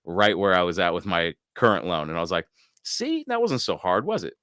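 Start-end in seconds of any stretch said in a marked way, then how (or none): 2.8-4.3 mock sing-song. Smug retort to the dealer.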